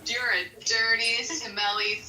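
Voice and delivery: lightly imitated insult, slow drawn-out ending; mock name-calling. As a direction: play-act his words, stretching "stinky sheep". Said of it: "So this is what he said".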